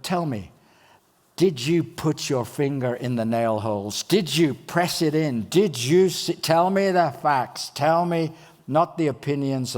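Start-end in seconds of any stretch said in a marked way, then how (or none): 4.0-9.8 pressing harder and louder, a touch slow; mock-insistent questioning; demanding facts. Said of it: "the content listener".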